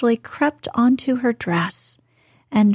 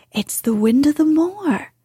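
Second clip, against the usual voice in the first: put-on Mary's girlish broad Yorkshire, pitched higher; 5 semitones higher than usual. A narrator's reading. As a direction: lay the Yorkshire on thick, proud of it. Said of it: "She said it as broadly as she could".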